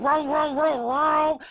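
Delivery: imitated boat motor; mock engine noise; engine revving. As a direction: rev it up with repeated vrooms.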